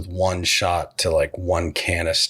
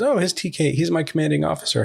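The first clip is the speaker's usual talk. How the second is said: higher, fast flustered bluff; flustered cover story; 8 semitones higher, faster than usual. Retold or imitated. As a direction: blurt it out, covering in a panic. Mayfield bluffs to cover Mando.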